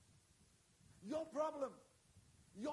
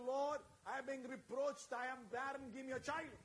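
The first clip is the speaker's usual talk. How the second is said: lightly voiced pleading prayer, barely tearful; retold tearful plea. Preacher voicing Hannah's early plea, a hint of tears. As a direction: murmur it like a first weary plea. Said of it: "would go in there and cry and cry and cry and say".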